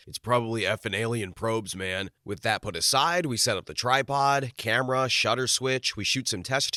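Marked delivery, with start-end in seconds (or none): 0.1-2.1 joking. Retold or imitated. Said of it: "one jokingly says".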